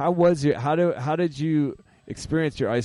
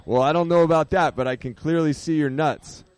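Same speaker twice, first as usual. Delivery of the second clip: lightly acted doctor, higher and louder at first; mock-earnest punchline as the doctor; joke doctor; 3 semitones higher, 4 dB louder than usual. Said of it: "and the doctor says".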